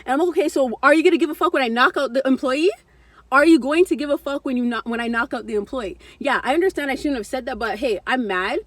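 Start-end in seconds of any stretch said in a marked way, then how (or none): 0.3-6.0 raised, heated challenge to the manager; hyped-up threat. Retold or imitated. On the phone threatening the manager, heated and loud. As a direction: push back hard with rising anger. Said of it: "I'm getting all hyped".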